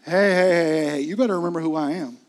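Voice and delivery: loud mock scold, fast at the end; hammed-up angry master putting them in their place; loud mocking warning; mock stern rebuke. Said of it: "That's not what he said".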